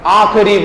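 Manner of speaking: आखिरी said as aa-kha-ree; weak vowel after kh in आखिरी; wrong, i dropped. Shown as a demonstration. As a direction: say आखिरी without its short i. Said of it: "इसमें मात्रा लगानी थी".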